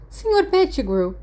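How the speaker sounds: sharp high call across the ward; shout. A narrator's reading. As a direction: call him out, scolding. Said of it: "ela gritou". (grito de bronca)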